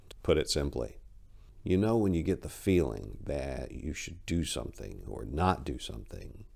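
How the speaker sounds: measured storyteller reading a dark tale; story narration. A narrator's reading. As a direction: read it like a campfire horror story, unhurried. Reads her short story aloud.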